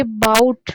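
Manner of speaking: "बाउट" said loud, with force; stressed syllable. Shown as a demonstration. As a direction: punch "बाउट" as the strong syllable. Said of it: "ज़्यादा force के साथ बोल रहे हैं". ("बाउट" पर पूरा ज़ोर)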